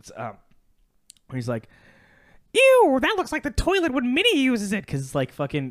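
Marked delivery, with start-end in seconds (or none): 2.5-4.8 high-pitched, loud squeak. Telling a joke to podcast listeners, doing the Mickey voice: Mickey Mouse voice. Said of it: "I'm gonna do the Mickey voice real quick".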